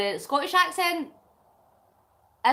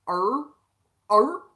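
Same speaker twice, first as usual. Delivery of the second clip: rising questioning dog-like "er"; imitated puzzled cartoon dog grunt; Scooby-Doo noise; 3 semitones lower, 7 dB louder than usual. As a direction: make a short cartoon-dog "ruh" sound. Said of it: "so like Scooby-Doo".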